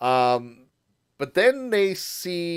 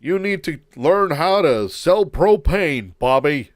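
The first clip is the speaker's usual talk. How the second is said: louder exasperated cartoon dad yelling at his son; a hint of a fed-up Texan father; Hank Hill impression; 6 dB louder than usual. Host mimics a cartoon father scolding Bobby, mildly louder. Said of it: "you ain't King of the Hill".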